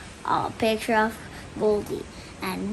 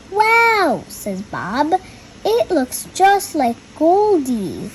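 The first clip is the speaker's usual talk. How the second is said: put-on reading to children; 2 semitones higher, slower than usual. A narrator's reading. Reads the picture book aloud.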